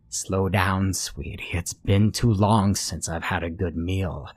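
put-on very old woman. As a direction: coax sweetly, slowing at the end. Monster chases the girl.

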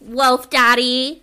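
high, drawn-out mock swoon; slow teasing exclamation. Real, not acted. Friend teasing the hero, slow and high. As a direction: savour the words slowly.

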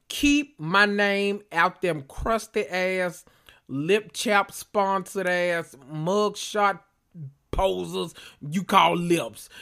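slow, drawn-out read of a savage insult text; mock shady text. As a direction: drag each insult out slowly to read her. Mock text he would send.

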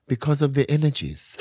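imitated German accent, amused. Retelling the hookup's explanation to the co-host, mock German accent. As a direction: quote him in a German accent. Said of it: "in his German accent".

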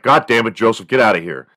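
a touch of an irritated father's yell; irritated dad telling his son to leave, mock yell; mock angry dad. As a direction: snap at the kid to get out, half-hearted. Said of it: "he's like".

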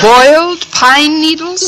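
stunned, slowly echoing the landlady's recipe; incredulous. Acted. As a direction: repeat it as if you can't believe your ears. Aghast at the breakfast dish.

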